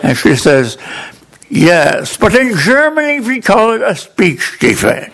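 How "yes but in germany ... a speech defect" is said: put-on higher, polite German-accented tutor; German tutor breaks the news to her student, German accent. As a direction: let him down gently in a German accent. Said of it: "a German tutor".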